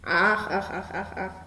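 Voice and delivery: low, soft croaking frog. A narrator's reading. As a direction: croak each ach like a frog by the pond. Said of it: "die Poggen spektakelt echt im an". (leises Froschquaken)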